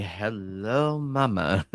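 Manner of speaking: playful mock come-on; hammed-up admiring greeting; joking flirtation. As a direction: draw out a cheeky, flirty hello. Joking flirtation, then laughs, I joke.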